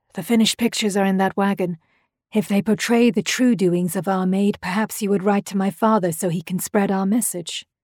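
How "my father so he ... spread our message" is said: ordinary delivery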